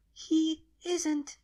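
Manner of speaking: high small voice, almost crying; baby dragon's last denial, tearful. Acted.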